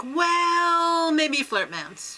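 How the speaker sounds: mock hedging, backing off slowly; dialed back. Contestant walking back her strategy, dialed back. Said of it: "then she dialed it back".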